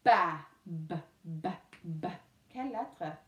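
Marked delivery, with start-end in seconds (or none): 0.0-2.1 Ba, then B cut down to a short repeated "buh"; isolated first sound. Shown as a demonstration. Teacher asks what pupils hear, sounding out B. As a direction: reduce Ba to a low, repeated B sound. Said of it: "Qu'est-ce que tu entends?".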